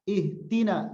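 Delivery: ihtina with a hard t where the d belongs; ihtina, the wrong sound shown on purpose. Shown as a demonstration. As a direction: swap the d for a t in ihtina as a mistake. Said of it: "Dal jangan jadi ta".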